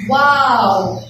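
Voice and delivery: a loud, excited wow. Shown as a demonstration. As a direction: read it with real excitement. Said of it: "So wha-, how I will read it?".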